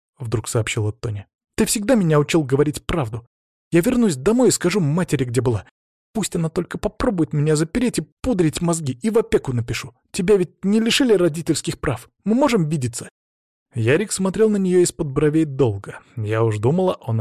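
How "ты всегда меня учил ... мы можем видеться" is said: lightly voiced young girl, higher and upset; a teen girl telling her dad what happened; hint of a hurt young daughter; teenage daughter. Tonya's defiant plan.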